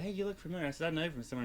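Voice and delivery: high-pitched retold hello; retold eager greeting. Retelling how she greeted the celebrity.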